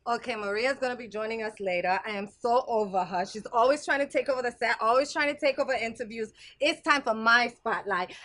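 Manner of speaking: lightly voiced diva character; catty, jealous diva; Gigi. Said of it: "Gigi, hello".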